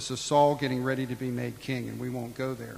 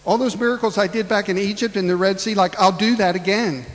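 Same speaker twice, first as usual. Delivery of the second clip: much higher, incredulous rebuke; exasperated; 7 semitones higher, 5 dB louder than usual. Acted. Preacher rebuking Gideon, high exasperated disbelief. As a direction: scold him in disbelief. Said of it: "And I want to say".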